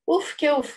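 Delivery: displeased storybook huffs; huffing. Acted. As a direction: huff and puff in mild annoyance. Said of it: "ξεφύσαγε και φυ". (δυσαρεστημένο ξεφύσημα)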